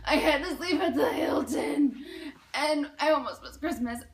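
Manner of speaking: hammed-up, breathy lament; milk the hardship for sympathy; exaggerated woe. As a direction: melodramatic mock distress. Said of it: "I am exaggerating to everybody".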